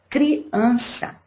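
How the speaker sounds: "criança" split as "cri... AN-ça"; syllable split. Shown as a demonstration. Teacher giving a paroxytone example, split syllables. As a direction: pause after "cri", then stress AN in "criança". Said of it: "a que a gente pronuncia com mais força é o an".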